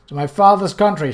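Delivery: Isabel shouting over rushing wind; shouted over wind. Acted. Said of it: "shouted Isabel".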